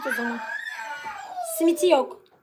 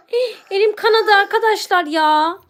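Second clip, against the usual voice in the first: mock distress; 3 semitones higher than usual. Playacts bleeding vampire victim.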